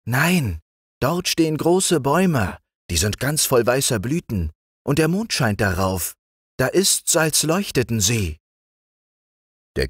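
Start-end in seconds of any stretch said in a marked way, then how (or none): 0.1-8.4 lightly higher, patient frog; a wise little frog, voiced higher; green frog's voice. A narrator's reading. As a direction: frog advising the king on the road, higher voice. Frog explains scene.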